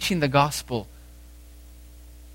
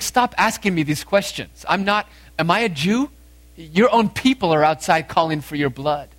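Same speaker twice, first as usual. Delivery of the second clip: frustrated Pilate; 2 semitones higher than usual. Acted. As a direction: act out a mildly exasperated comeback. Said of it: "in frustration".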